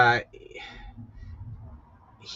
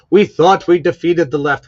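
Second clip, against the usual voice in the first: loud declaration; 4 semitones higher, 10 dB louder than usual. Real, not acted. Political rant, raised voice.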